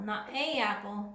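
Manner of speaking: a as ay before apple; wrong a apple. Shown as a demonstration. Teacher shows the wrong form, a apple, said ay apple. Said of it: "We said an apple".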